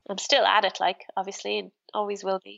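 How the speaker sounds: stuffy, bunged-up voice from a cold; blocked nose. Real, not acted. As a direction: talk through a heavy head cold. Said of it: "I have a terrible cold, so I know I probably sound like I'm completely bunged up".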